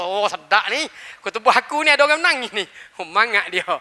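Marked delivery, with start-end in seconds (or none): 0.0-2.7 pleased imam. Retold or imitated. The imam is pleased his sermon moves someone, quick and delighted. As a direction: gloat a little and hurry it. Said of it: "Dia kata".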